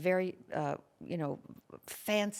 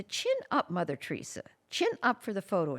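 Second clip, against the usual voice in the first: bossy woman; 2 semitones higher than usual. Retold or imitated. Rude woman ordering.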